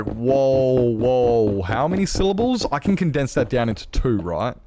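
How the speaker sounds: lightly acted lazy Australian objecting; a hint of a slack Australian. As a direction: play up the slack Australian a touch, stretching the whoas. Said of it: "slack Australian who's like".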